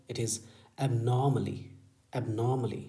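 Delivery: slow demo. Shown as a demonstration. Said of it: "idea लग गया होगा".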